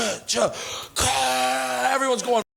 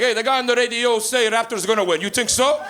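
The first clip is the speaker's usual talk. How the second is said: Portuguese dad; 2 semitones higher than usual. Retold or imitated. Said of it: "my father, was like".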